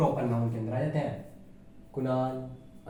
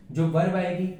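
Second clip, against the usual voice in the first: ordinary talk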